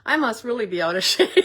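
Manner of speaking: chuckling mid-sentence; laughing. Real, not acted. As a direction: laugh through the words. Laughing at herself.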